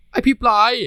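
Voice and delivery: loud high outraged yell; angry yell. Acted. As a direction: shout him down. Talay snaps at his boyfriend.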